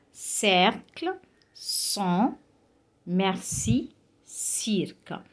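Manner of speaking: cercle, sang, merci, cirque with an S sound; French soft C. Shown as a demonstration. Teacher giving soft C examples, cercle, sang, merci, cirque with S. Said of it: "it is pronounced like S".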